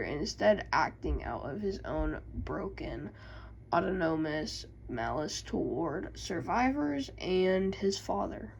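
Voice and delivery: sudden dramatic whisper. Acted. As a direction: drop to a whisper mid-sentence. Dramatic lore reading.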